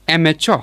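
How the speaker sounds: "amateur" with the first syllable stressed. Shown as a demonstration. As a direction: model "amateur", weight on am. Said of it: "It is pronounced as".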